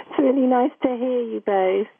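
loud, close-miked phone voice; too close to mic. Real, not acted. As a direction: caller right up on the mic. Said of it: "you sound so close".

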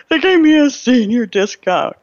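hysterical. Retold or imitated. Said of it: "that I am so hysterical".

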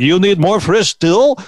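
lightly hammed Russian voice; a hint of a Russian maid; mock Russian accent. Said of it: "She wasn't like".

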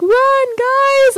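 high, loud mock panic yell; panicked cry. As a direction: yell at them to run, hammed-up. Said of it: "And the lady's like".

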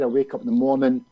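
normal talking voice

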